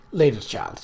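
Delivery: put-on a gently kind word to a child; kindly tone. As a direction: soften it for the little girl. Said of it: "she said in a kindly tone".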